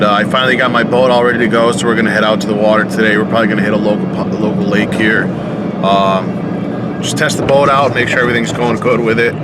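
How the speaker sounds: talking while driving over bumps; on a bumpy road. Real, not acted. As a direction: voice jolted by a bumpy ride. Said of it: "sorry for the bumps on camera where I'm driving right now".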